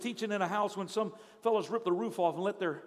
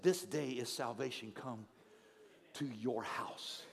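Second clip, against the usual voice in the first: quiet reflective quote; 7 semitones lower, 6 dB quieter than usual. Shown as a demonstration. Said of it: "I love this fact".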